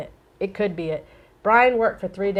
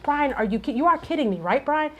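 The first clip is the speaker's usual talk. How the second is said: higher-pitched, retold incredulous plea; alarmed disbelief; 5 semitones higher than usual. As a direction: retell pleading disbelief, pitch lifted. Retelling her alarmed disbelief at Brian.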